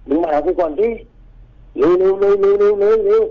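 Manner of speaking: a spirit calling someone to swim over; eerie beckoning. Retold or imitated. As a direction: lure him in, stretching every word. Ghostly figure beckoning across water.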